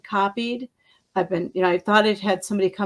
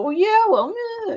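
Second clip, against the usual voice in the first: mock comeback; 4 dB louder than usual.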